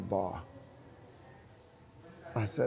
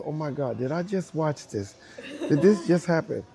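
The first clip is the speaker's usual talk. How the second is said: amazed crowd; 4 semitones higher, 5 dB louder than usual. Retold or imitated. Crowd amazed at his dance.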